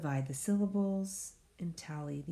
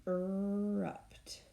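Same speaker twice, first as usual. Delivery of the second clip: "Erupt" whispered under the breath; teacher whispering the word while writing; 2 semitones higher than usual. Shown as a demonstration. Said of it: "Divide my syllables".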